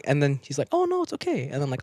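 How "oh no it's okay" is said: high, soft fake old-man refusal; high mock old man. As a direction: squeak out a polite no as the old man.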